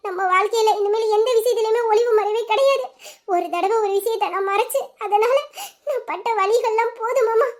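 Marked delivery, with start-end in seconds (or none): 3.3-7.5 tearful. Acted. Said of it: "நீ அழுவாம இருக்கலாம்ல".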